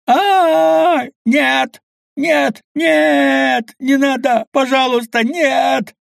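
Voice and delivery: high, loud screaming pleas; panicked pleading. A narrator's reading. Fisherman begs as infected attack him, screaming high in panic. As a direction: scream no in sheer terror. Man eaten alive pleading.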